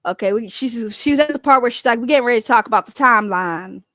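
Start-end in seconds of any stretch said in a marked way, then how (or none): 2.0-3.8 loud imitation of a Southern accent; amateur Southern accent impression; fake Southern accent. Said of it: "I just don't have a good Southern accent".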